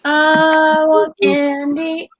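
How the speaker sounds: put-on slow, drawn-out childish whine; whiny kid. Childish whining bit.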